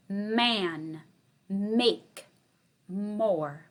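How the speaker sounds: one word at a time with pauses; slow spaced words. Shown as a demonstration. Teacher reading a word list to kindergarten, slow and spaced. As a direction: read the list slowly so kids can hear the first sound. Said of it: "Okay, listen carefully".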